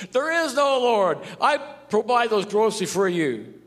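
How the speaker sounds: loud, high mock shout; atheist shouting. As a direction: jump out and shout at her.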